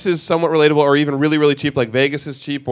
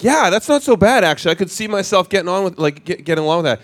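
people-pleasing homeowner; 4 semitones higher than usual. Retold or imitated. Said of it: "And they'll be like".

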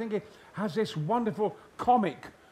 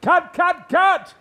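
high loud repeated cut; director yelling cut; 11 semitones higher, 13 dB louder, much slower than usual. Retold or imitated. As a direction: stop the take by shouting. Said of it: "And, and".

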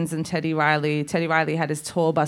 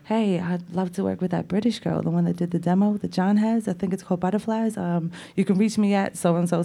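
a hint of a mock singer on a voicemail, lightly voiced; bad impression of a singer. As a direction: retell a friend's poor imitation of a singer, barely changing the voice. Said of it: "That is the worst, like, impression".

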